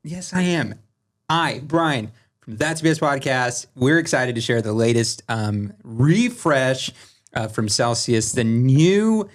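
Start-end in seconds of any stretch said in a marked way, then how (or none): 1.3-9.3 ad read. Acted. Sponsor read for Celsius.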